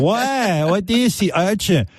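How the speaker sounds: high-pitched puzzled questioning; mock-naive high voice; baffled, as if hearing a new word; Chinny impression. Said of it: "he goes".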